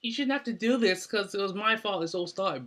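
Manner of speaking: hammed-up tearful girlfriend voice; mock pleading Brooke. Brooke's pleading quote acted out.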